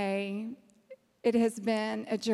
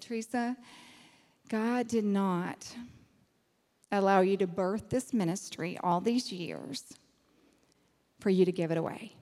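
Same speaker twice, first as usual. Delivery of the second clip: sober reality check; 3 semitones lower than usual. Retold or imitated. Katie correcting her over giving ministry away, sober. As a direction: lower and deliberate, with long pauses. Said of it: "she gave me a reality check".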